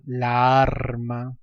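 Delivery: very slow "la arma" with a long joined a; cacophony example. Shown as a demonstration. Teacher giving another wrong example, drawn-out cacophony. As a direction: stretch the clashing a's in "la arma". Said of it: "pasa con vocablos como".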